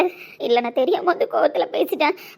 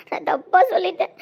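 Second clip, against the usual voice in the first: ordinary talk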